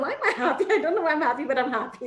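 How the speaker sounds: a light mock of pure giddy joy; giddy disbelief. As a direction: giggle through the happy words, bewildered. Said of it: "she's really pinching herself".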